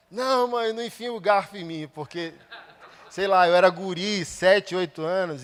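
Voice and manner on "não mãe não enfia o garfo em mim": mock child's plea, higher and louder; a boy begging his mother to drop the fork, hammed-up panic; child pleading. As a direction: beg mom like a scared kid of seven.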